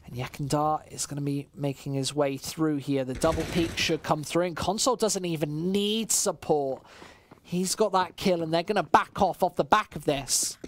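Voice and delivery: steady esports caster call; live play-by-play. Acted. Caster calling the match for stream chat, live play-by-play. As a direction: call the round for the viewers.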